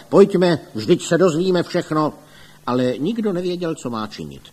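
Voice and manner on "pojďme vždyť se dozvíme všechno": loud, high rallying call; eager raised exclamation. A narrator's reading. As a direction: urge everyone along loudly. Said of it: "pan Rada Kdojek zvolal".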